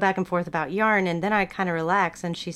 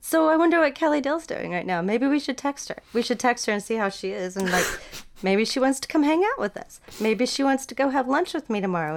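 tipsy excitement; 5 semitones higher than usual. Retold or imitated. Drunk excited plan.

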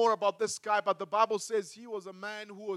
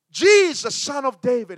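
high, loud cry over the crowd; shouting louder; 3 semitones higher, 10 dB louder than usual. Retold or imitated. Beggar shouting past the crowd, high and loud. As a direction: shout over everyone to be heard. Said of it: "The more he shouted".

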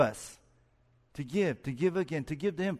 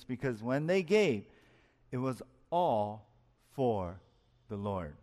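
preaching emphasis; 2 semitones lower than usual. Acted. Preacher repeats the key verse.

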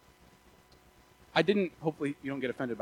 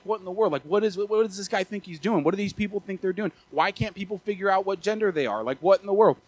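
worked-up, higher-pitched mock rant; freaking out; 4 semitones higher, 4 dB louder than usual. Preacher re-enacting his rant after watching the news, freaking out. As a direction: re-enact an exasperated, baffled outburst. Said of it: "I'm freaking out".

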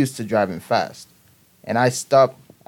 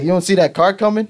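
higher-pitched mock scolding question; retold reproach; 6 semitones higher, 4 dB louder than usual. Examiner to learner about distant car, mildly reproachful. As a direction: imitate an examiner's disbelieving challenge.

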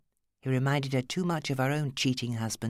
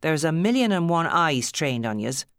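louder Irish warning; 4 semitones higher, 6 dB louder than usual. A narrator's reading. Alice warning Steve of watchers, raised Irish lilt. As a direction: warn him urgently, Irish.

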